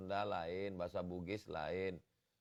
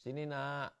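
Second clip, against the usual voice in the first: gentle modern teacher; 5 semitones higher than usual. Retold or imitated. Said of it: "Sekarang saya perhatikan di sekolah".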